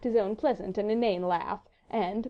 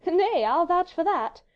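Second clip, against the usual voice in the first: high, slow, louder lilt; teasing lady; 10 semitones higher, 5 dB louder, slower than usual. A narrator's reading. Wife vouching against her husband, teasing high lilt. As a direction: chime in high and playfully.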